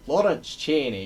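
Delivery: Lawrence Chaney in a Scottish accent; Scottish-accented name. Shown as a demonstration. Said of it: "you've got to say it with the accent".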